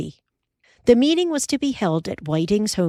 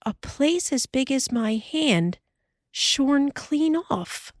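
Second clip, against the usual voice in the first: higher wife's voice, slow marvel; Ma amazed; 7 semitones higher, slower than usual. Acted.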